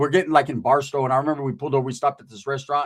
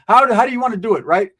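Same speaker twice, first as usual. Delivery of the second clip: mock threat; 7 semitones higher, 8 dB louder than usual. Threatening friend in retold call.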